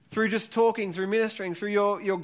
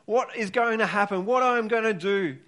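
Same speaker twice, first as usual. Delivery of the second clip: passionate Jesus pleading; 4 semitones higher than usual. Retold or imitated. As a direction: plead with them like Jesus urging his disciples. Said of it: "He, he's saying".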